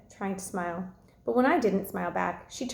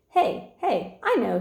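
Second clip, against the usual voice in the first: eager, higher burst of an idea; excited; 4 semitones higher, 3 dB louder, slower than usual. Acted. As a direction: jump in with a new idea. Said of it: "said Dad excitedly".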